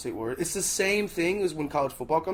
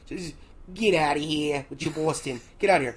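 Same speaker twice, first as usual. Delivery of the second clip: put-on thick Boston accent, dismissive. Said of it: "That was a really good Boston accent".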